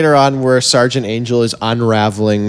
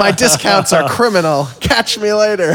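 mock British villain; 8 semitones higher than usual. Quoting the villain's exit line.

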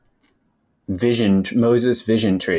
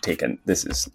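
hushed mock outrage; 6 semitones lower, 7 dB quieter than usual. Mock stern aside, whispered.

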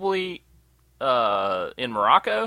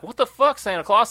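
incredulous; 7 semitones higher than usual. Retold or imitated. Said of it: "And you're just like".

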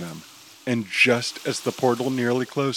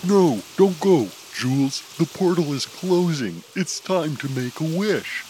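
urgent shout; 5 semitones higher than usual. Acted. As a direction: call him back before it's too late. Chaser pleading as portal closes.

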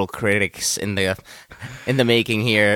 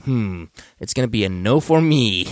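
lightly put-on actor voice; Will Arnett. Co-host reads out the tweet's verdict, lightly put-on voice. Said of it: "Will Arnett voice".

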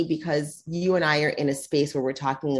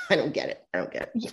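baffled; 4 dB quieter, faster than usual. Retold or imitated. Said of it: "And I'm like".

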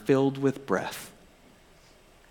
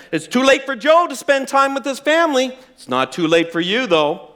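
raised, pounding preacher's warning; blunt preacher; 6 semitones higher than usual. Retold or imitated. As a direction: preach it at them without mercy. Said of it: "getting angrier and angrier the longer this guy spoke".

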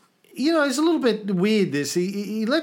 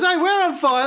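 much higher, louder mock shout; mock yell; 10 semitones higher, 4 dB louder than usual. Burning ship's sailor yells to the third ship, mock shout. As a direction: shout across to the next ship, hammed-up. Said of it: "goes to the third ship and goes".

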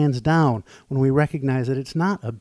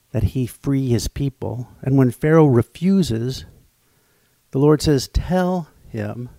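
measured, louder scripture reading; 4 dB louder than usual. Acted. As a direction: read the passage with weight. Reads scripture aloud.

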